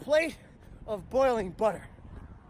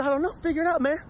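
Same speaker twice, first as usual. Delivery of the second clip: impatient inner voice; 7 semitones higher, faster than usual. Retold or imitated. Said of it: "And I said".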